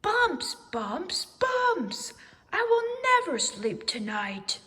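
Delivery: high, loud panicked yelling; panicked shout. A narrator's reading. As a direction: scream the bumps away in panic. Owl panics at bumps.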